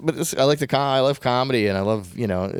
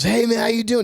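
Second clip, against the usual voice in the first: higher-pitched, friendly retold hello; friendly greeting; 10 semitones higher than usual. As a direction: imitate a friendly old acquaintance saying hi. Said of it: "He was, like, so friendly to me".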